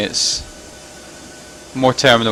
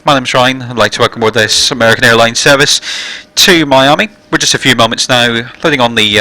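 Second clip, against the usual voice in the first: louder, formal cabin address voice; captain's PA announcement; 3 dB louder than usual. Real, not acted. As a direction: welcome passengers over the intercom. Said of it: "it means the passenger announcement now".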